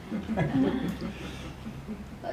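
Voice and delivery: breathy, quiet little laugh; a quick amused chuckle; soft laugh. Real, not acted. Laughs after her own haiku.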